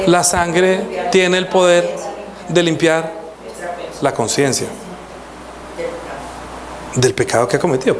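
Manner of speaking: very slow, with long pauses between phrases. Shown as a demonstration. Preacher repeating for congregation, very slow. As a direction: spell it out slowly for them. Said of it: "¿Estoy hablando muy rápido?".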